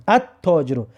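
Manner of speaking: "التاجرو" as at-taajiru with a doubled T; correct silent L. Shown as a demonstration. Teacher modelling for students, silent L in "التاجرو". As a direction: merge the L into the T in "التاجرو". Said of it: "و تلفظش درست بکن".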